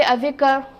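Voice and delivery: "al-dhikr" with lam sounded, al then dhikr; wrong pronunciation. Shown as a demonstration. Teacher repeating the wrong version with lam. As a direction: say the l in "al-dhikr" on purpose. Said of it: "I will not say".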